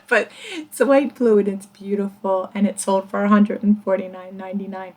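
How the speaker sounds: talking through hiccups; hiccuping between words. Real, not acted. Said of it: "I'm still hiccuping".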